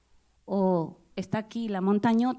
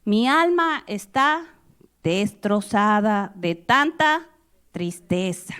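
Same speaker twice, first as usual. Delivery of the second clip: anguished; 4 dB louder, slower than usual. Acted. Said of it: "afligirse y a angustiarse".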